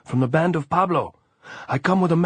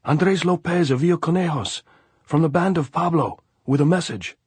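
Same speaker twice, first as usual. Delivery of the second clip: loud high call into the dark; shout; 10 semitones higher, 6 dB louder than usual. A narrator's reading. Andres hailing the government lines, loud high shout. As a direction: shout up at the parapet.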